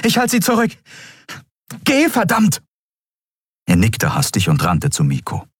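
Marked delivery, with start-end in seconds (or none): 0.0-2.6 high, urgent yell; shouted order. A narrator's reading. Captain covers comrade's retreat, shouted order. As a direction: yell at him to leave.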